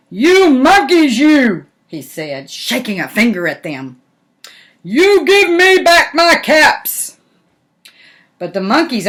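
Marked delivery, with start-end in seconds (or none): 0.1-1.7 slow, louder, higher scolding; cross peddler scolding monkeys. Acted. 4.8-7.2 slow, higher, louder demand; demanding peddler. Acted. Peddler demands his caps.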